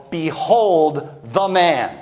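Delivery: slow, drawn-out mock proclamation; ridiculing. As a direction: present him with mocking ceremony. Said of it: "Now, he's ridiculing".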